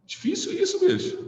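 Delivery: high squeaky whine of despair; hammed-up high-pitched complaint; mock exasperation. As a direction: wail it like a fed-up student. Complaining grammar is hard.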